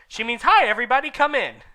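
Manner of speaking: high squeaky mock correction; mocking old wizard. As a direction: poke fun at her slip. Dumbledore voiced correcting.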